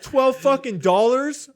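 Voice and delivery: loud, high, slow disbelief; incredulous outburst. Retold or imitated. Tourist shocked at tiny fine, loud incredulous repeat. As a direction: shout the price back in disbelief. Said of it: "I'm like".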